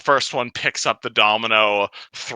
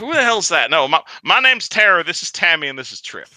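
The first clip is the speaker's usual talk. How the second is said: goblin voice; 6 semitones higher than usual. Acted. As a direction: introduce them proudly. Goblin introduces friends.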